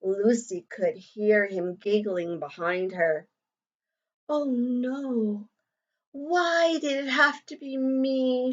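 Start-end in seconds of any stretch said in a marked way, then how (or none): 4.3-8.5 softer, dismayed murmur to herself; a quiet "why me" under the breath; soft worried inner thought. Acted. Lucy wondering to herself after the mean joke, softly dismayed.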